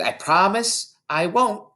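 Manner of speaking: put-on high, slow little girl promise; earnest small girl, drawn out; girl's voice. A narrator's reading. Lavender promising Miss Honey, high and slow. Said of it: "Lavender said".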